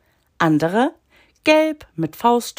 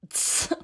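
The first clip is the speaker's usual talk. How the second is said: dismissive tsk; 10 dB quieter than usual. A narrator's reading. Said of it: "machte der blau getupfte".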